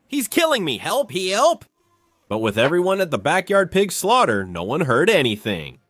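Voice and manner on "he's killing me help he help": high mock yell for help; retold scream. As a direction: yell it like he's being beaten up. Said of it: "screaming at the top of his lungs".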